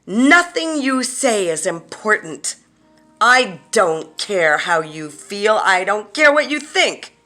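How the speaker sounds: loud, high-pitched berating tirade; furious acted shout, punching key words; screaming in their face. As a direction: hurl each insult at full force. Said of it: "screaming into their face".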